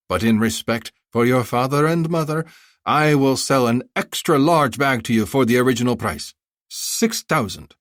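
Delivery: high, effusive haggling vendor; a flattering bazaar seller pitching; eager merchant. Acted. Vendor bargaining.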